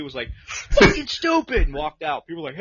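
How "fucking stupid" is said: loud, high retold outburst of disgust; exasperated, raised-voice reenactment; pissed-off outburst. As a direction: re-enact storming out in a huff. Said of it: "I was so pissed".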